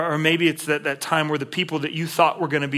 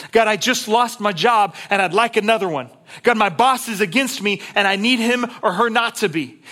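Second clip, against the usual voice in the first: emphatic pleading prayer; 7 semitones higher, 5 dB louder than usual. Retold or imitated. Preacher voicing modern pleas.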